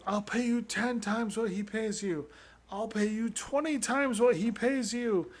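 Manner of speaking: overdone dubbed bargaining plea; dramatic dub voice. Retold or imitated. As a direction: ham it up like an overacted dub. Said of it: "in the dubbed version".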